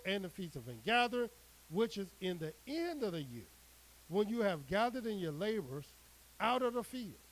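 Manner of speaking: measured, declaiming scripture read; solemn preacher reading the Word. Acted. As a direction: proclaim the verse to the flock. Reads scripture aloud to congregation.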